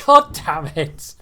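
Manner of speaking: loud slow "God damn it!" yelled; frustrated shout. Real, not acted. Shot missed.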